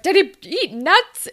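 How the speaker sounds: mock urgent dad; urgent question. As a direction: fire it off in alarm. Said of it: "And Dallas is like".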